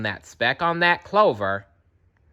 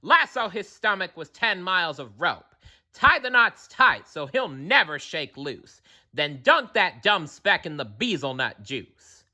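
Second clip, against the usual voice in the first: gang shouting; 4 semitones higher than usual. Acted. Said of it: "they shouted".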